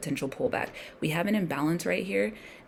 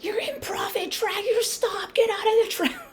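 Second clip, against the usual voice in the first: much higher, panicky mock voice, louder at the end; mocking panicky newbie trader; 6 dB louder than usual. Mocking nervous new traders urging him to bail, high panicky voice. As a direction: squeal like a newbie begging you to bail out. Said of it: "They're like".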